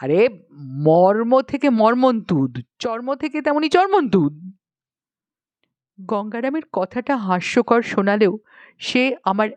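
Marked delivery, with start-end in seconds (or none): 0.0-4.5 explaining grammar. Acted. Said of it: "Gangaram এবার আমাকে ব্যাকরণ বোঝালো".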